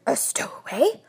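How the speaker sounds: throat-clear, then a rising echo; startled question. A narrator's reading. Husband echoing the bear's confession, startled. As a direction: repeat it in disbelief, rising at the end.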